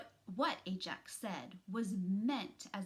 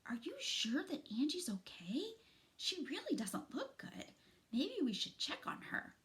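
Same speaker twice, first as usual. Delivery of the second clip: worried quiver; 7 semitones higher than usual. Acted. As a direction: ask fearfully if she's alright. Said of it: "voice quivered with concern".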